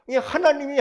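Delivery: ordinary delivery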